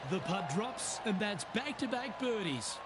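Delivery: excited call. Acted. Birdie putt drops on air.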